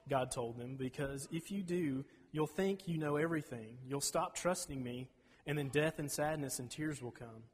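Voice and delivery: put-on reading a children's Bible story aloud; storybook reading voice; story narration. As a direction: tell it like a gentle bedtime story.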